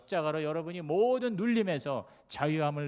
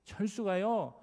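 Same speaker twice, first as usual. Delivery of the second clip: sly sweet sister; 4 semitones higher, 3 dB louder than usual. Retold or imitated. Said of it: "할머니한테는 말이".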